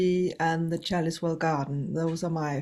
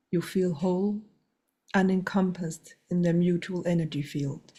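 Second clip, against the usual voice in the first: guided meditation. Acted. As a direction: guide them gently inward. S1 continues the meditation.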